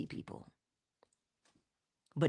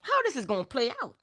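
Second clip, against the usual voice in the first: curious musing; faster than usual. Retold or imitated. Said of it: "And I said".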